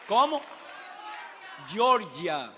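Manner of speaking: booming roll call of countries; calling out to the crowd. Real, not acted.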